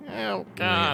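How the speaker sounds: embarrassed groan. Real, not acted. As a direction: cringe at your own mistake. Embarrassed at rules mistake.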